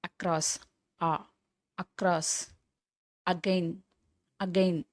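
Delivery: "across", "again" opening on an "aa" vowel; ஆ sound demo. Shown as a demonstration. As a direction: say "across" and "again" word by word, first letter as "aa". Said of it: "எல்லாமே ஆ உச்சரிப்பு". ("across", "again" முதல் எழுத்தை ஆ என்று தனித்தனியாக உச்சரி)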